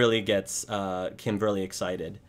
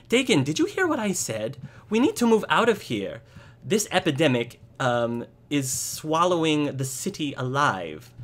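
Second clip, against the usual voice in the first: high-pitched, urgent insistence; alarmed wife; 6 semitones higher, 3 dB louder than usual. Acted. Wife demanding her husband's attention about an epidemic, alarmed. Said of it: "And his wife says".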